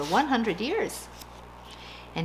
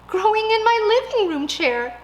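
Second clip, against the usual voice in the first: put-on alarmed old lady; 12 semitones higher, 6 dB louder than usual.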